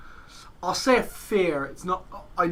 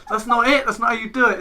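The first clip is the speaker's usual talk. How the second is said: higher and louder, laughing while scolding; laughing correction; 6 semitones higher, 8 dB louder than usual. Retold or imitated. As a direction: correct them through a laugh. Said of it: "He's like".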